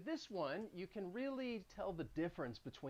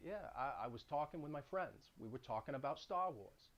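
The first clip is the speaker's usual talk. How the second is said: Boston upward inflection; 2 semitones lower, 6 dB quieter than usual. Shown as a demonstration. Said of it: "So if I were to say".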